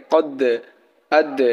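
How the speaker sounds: কদ and আদ with the final d bounced off; pushed qalqala endings on কদ, আদ; qalqala bounce. Shown as a demonstration. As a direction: release the d in কদ and আদ with a short echo. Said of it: "কলকলা হরফ".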